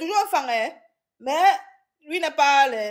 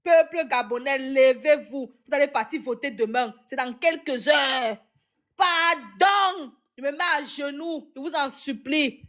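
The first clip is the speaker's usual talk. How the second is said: mock pleading; slower than usual. Mock plea to voters on knees.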